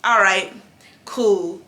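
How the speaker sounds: low, soft brush-off; resigned cool. Retold or imitated. To the stylist who won't help, quietly resigned. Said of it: "I was like".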